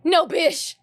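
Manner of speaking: flat, dry deadpan reply. Retold or imitated. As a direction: say it totally straight.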